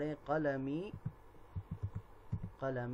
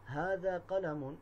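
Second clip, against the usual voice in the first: slow demo; 4 semitones higher, slower than usual. Shown as a demonstration. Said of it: "جیسے".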